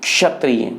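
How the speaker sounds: क्षत्रिय, half k sliding into retroflex sh; ksha from throat. Shown as a demonstration. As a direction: start क्षत्रिय with a slight k in the throat. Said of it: "इसका उच्चारण यहाँ से शुरू होकर". (क्षत्रिय का आरंभ कंठ से)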